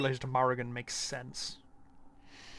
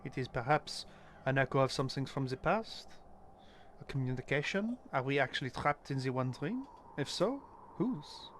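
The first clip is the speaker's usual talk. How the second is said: put-on light French accent, pitched a bit up; a French detective speaking English with a French accent. A French detective sharing his dream research, in a French accent. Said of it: "Whenever I do a French accent for a character".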